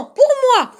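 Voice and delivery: very high, loud cub squeal; yelping protest. A narrator's reading. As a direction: yelp it back at your big brother. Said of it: "glapit le plus petit". (glapissement aigu et très fort)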